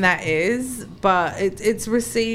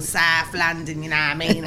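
broad South London accent; stereotypical South London; 3 semitones lower than usual. Shown as a demonstration. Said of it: "which is the complete stereotypical".

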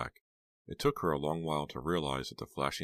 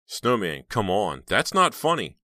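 upset pleading; 4 semitones higher, 6 dB louder, slower than usual. Acted.

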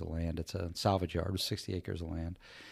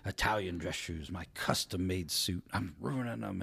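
mock whining. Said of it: "and he's bitching".

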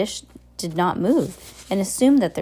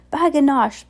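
high, loud exclamation; small child's excited cry; little Sonny's cry; 8 semitones higher, 5 dB louder than usual. A narrator's reading. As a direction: pipe up high and proud. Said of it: "Sonny cried".

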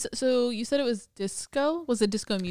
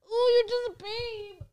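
high, slow cooing at a pet; 14 semitones higher, slower than usual. Real, not acted. Cooing at the dog.

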